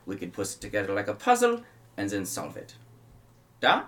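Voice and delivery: Van Richten offering help. Acted. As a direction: offer an alliance warmly.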